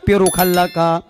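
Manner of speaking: talking to parrot. Acted. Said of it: "त्या पोपटाशी बोलायची".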